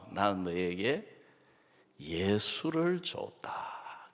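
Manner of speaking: soft, slow, hushed answer; God's gentle voice. Retold or imitated. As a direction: speak as a tender God. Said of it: "하나님이 뭐라 하시느냐?".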